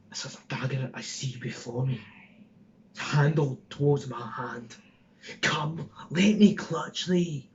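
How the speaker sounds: put-on rough Glaswegian street accent, lightly done; hard Glasgow accent, slowing at the end; Glaswegian Ned. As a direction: Glaswegian thug threatening a stabbing. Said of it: "I was pushing a Glaswegian out".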